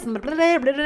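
gushing blah blah; excited babble. Shown as a demonstration. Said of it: "I start talking like this".

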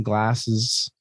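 usual speaking voice

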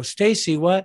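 high, loud disbelieving call to his wife; half-mock shocked cry of her name; retold disbelief. Husband to wife over broken AC, shocked high call.

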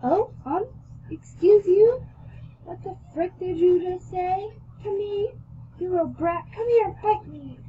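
high, loud, bratty outrage; indignant yelling. A narrator's reading. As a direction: take offence and yell it, pitched high. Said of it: "She yelled all".

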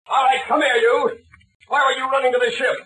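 questioning the captured man harshly; stern interrogation. Acted. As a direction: grill the prisoner hard.

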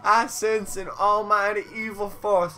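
put-on southern accent. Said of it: "turn into Foghorn Leghorn".

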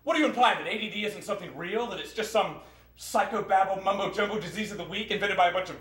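indignant, building a long accusation; indignant rant. Acted. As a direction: fire back, affronted on your own behalf. Indignant defence of the diagnosis.

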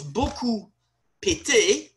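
beaucoup pété, the liaison T heard as pété; the unfortunate liaison. Shown as a demonstration. Teacher revealing the misheard joke. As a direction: land the pété with comic weight. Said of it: "could mean".

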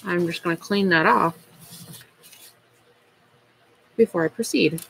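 talking with a pen between the teeth. Real, not acted. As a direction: say it around a pen held in the teeth. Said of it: "which is why I sounded funny".

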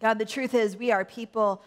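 earnest, even-pitched congregational prayer; leading prayer. Real, not acted. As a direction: pray aloud sincerely, phrase by phrase.

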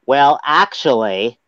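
very slow pedantic well actually; well actually nerd. Pretend. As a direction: drawl it like a know-it-all. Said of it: "you left out the important part".

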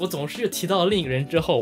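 normal talking voice

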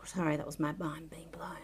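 breathless whispered apology; hushed sheepish aside. Real, not acted. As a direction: whisper it, still amazed. Unvoiced whisper after gasp.

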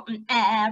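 low "mm, eh" frog sound; playful imitation of a frog; frog noise. Shown as a demonstration. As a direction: poke the tongue out on a blurted frog call. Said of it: "But some of them go".

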